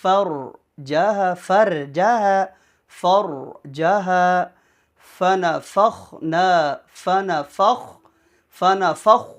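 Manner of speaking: slow, measured Quran recitation; careful teaching recital, syllables drawn out; verse recitation. Shown as a demonstration. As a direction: recite with long held vowels. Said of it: "یہ پوری آیت میں پڑھتا ہوں".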